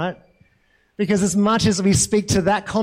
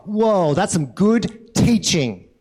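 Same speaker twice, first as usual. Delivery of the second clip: slow, mock-impressed drawn-out reaction; much slower than usual. Onlookers reacting to the teaching, mock impressed. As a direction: play the crowd marvelling at the wrong thing. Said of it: "And they're just like".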